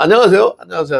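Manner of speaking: cheerful greeting. Retold or imitated. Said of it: "만날 때마다".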